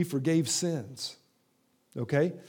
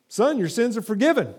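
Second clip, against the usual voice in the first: higher, proclaimed words of Jesus; Jesus speaking; 6 semitones higher, 4 dB louder than usual. Acted. Jesus to the paralytic man, raised and declared. Jesus quoted, then quote repeated.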